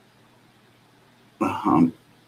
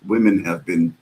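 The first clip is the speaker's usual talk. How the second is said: lightly pompous imitation of a preachy host; a hint of a self-righteous speechmaker, hammed-up a little; mocking Mike. Mocking Mike's speech about women to his co-hosts, a lightly voiced pompous parody. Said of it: "He makes sure to say it".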